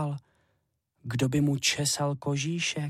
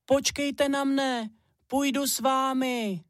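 put-on much higher, slow, eager child voice; little hare pleading; 13 semitones higher than usual. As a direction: beg mum to wait, small and eager.

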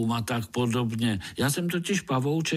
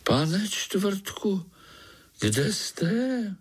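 calling out in the dark; 10 semitones higher, much slower than usual. A narrator's reading. Pája calls in the dark.

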